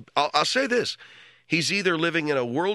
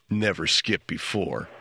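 mocking friend voice; 8 semitones lower, slower than usual. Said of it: "tells me that his".

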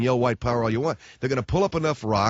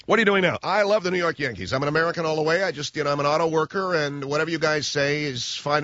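mock innocent American; 3 semitones higher than usual. Acted old Nazi today.

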